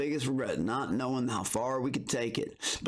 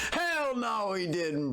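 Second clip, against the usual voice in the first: disbelief; 8 semitones higher, slower than usual. Real, not acted. Reacting to the clip.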